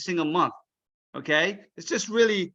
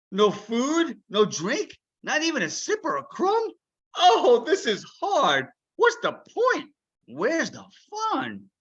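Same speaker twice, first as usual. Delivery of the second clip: high complaining duck voice, drawn out; whiny duck; 9 semitones higher, 3 dB louder than usual. Acted. Duck whining to Ilyas about fasting, whiny. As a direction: moan about the hunger.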